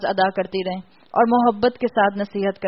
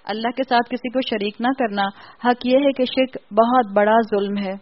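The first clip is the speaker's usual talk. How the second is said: with great love. Retold or imitated. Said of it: "بہت محبت سے کہا".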